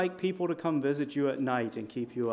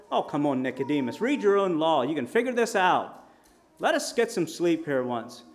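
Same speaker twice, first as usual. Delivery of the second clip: louder, a little higher, tired teasing; mock exasperated Jesus; 3 semitones higher, 6 dB louder than usual. Jesus teasing Nicodemus late at night, mock exasperated.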